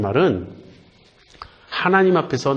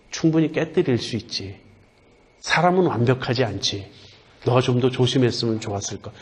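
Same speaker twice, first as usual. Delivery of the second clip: softened mother; 2 semitones lower than usual. Retold or imitated. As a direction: ease off and forgive the child kindly. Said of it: "금방 사람이 누그러지죠".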